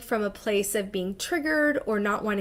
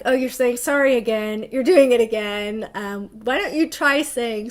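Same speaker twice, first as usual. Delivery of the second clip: imitating girlfriends; 6 dB louder than usual. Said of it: "they're like".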